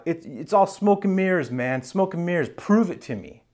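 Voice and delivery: high-pitched, exasperated protest; disbelieving challenge. Retold or imitated. Abraham challenges a silent promise from God, disbelieving challenge. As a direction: dismiss it all and demand proof. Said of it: "Abraham says to God".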